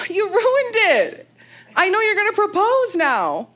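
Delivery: high, drawn-out mock wail; whiny reproach. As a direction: whine it, dragging out the blame. Acted reproach to proposing partner.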